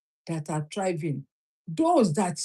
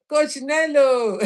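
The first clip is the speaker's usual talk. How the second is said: laughing greeting; 4 semitones higher, 6 dB louder, slower than usual. Real, not acted. Greets coach joining live.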